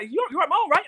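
high-pitched hopeful checking; high unsure question. Retold or imitated. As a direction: ask it high and nervous. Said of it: "I'm like".

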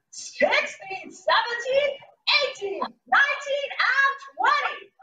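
counting through a held plank; holding a plank. Real, not acted. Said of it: "Here we go".

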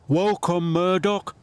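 friendly call. Acted. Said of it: "called Harvey".

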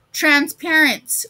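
high, slow, drawn-out punchline; announcing. A narrator's reading. Ethan announces his ghost joke's answer, slow and high. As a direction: announce the punchline slowly and proudly. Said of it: "announced Ethan".

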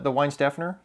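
Weinstephaner as WINE-STEF-en-er, rising; questioning Weinstephaner, stressed on STEF; Americanized pronunciation. Retold or imitated. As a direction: order Weinstephaner with English w and plain s. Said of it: "I kind of Americanized it".

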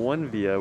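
"one Via" said as two words; careful correct pronunciation. Real, not acted. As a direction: say "one Via" right, as one plus Via. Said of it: "I'm gonna say it right".

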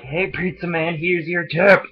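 put-on high and loud, a rowdy drunk holler; drunk shout. Drunk to the pizza man, high rowdy holler. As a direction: holler it like a wasted show-off. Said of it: "I'm like".

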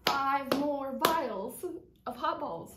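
mock threat. Teasing an extra round.

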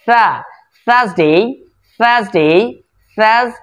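থার্সডে with tongue at the upper teeth; dental th sound. Shown as a demonstration. Teacher demonstrating tongue placement, dental th. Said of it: "উপরের দাঁত নিচের".

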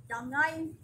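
loud, exasperated pleading; exasperated plea. Real, not acted. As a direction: plead loudly for them to be spared. Pleading for scolded young staff.

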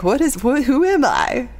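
high-pitched, exaggerated Texas accent; put-on Texas accent. Driver catching themself talking like a friend, Texas accent. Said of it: "I was doing the whole accent".

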